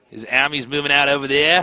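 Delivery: attempted Australian accent; put-on Australian caster. Shown as a demonstration. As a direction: try an Aussie accent on game commentary. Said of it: "can you do an Australian accent?".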